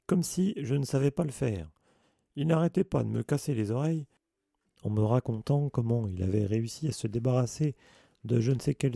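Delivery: lightly voiced gamekeeper, annoyed and scoffing; grumbling Hagrid. Gamekeeper scoffing at the new teacher to the children, indignant.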